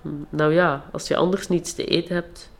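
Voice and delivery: even, unhurried storytelling read; story narration. Acted. Author reading her fairy tale to the listeners, calm storytelling.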